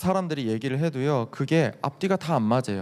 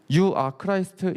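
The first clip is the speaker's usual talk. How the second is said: slow English gloss; 5 semitones higher, much slower than usual. Shown as a demonstration. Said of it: "이 말이거든요".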